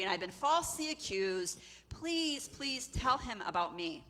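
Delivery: mildly urgent plea, stretched words; pleading. Acted. Joseph begs cupbearer to remember.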